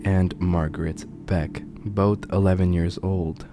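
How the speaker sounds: measured, solemn true-crime storytelling; grave storyteller with weighty pauses; ominous horror narration. A narrator's reading. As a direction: narrate a dark case, letting phrase endings sink.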